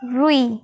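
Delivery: रुई with a quick short रु. Shown as a demonstration. Teacher giving the short रु in रुई. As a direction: say रुई fast, रु barely held. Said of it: "जल्दी बोलते हैं ना".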